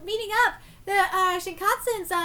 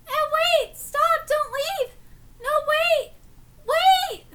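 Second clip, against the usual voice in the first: higher, louder pleading shouts; desperate calling out; 8 semitones higher, 5 dB louder, much slower than usual. Real, not acted. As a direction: call after someone who's leaving. Begging character not to leave.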